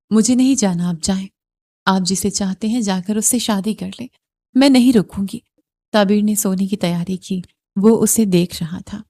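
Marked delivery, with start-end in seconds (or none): 0.1-5.4 defiant refusal. Acted. Wife refusing in an argument.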